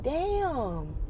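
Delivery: stunned disbelief. Retold or imitated. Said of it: "And I'm like".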